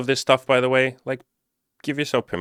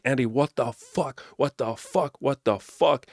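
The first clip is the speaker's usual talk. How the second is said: caps-lock disbelief; 5 semitones higher, slower than usual. Retold or imitated. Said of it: "you hit the caps lock key".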